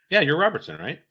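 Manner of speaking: high, loud imitation of a private; overfamiliar private. Private asks a specialist his name, high overfamiliar voice.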